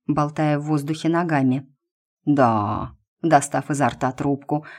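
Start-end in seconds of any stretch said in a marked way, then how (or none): 2.3-2.9 low, drawn-out stunned yes; stunned drawl. Acted. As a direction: let it out slowly, dumbfounded. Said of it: "ошарашенно протянул дедок". (ошарашенно протянуть)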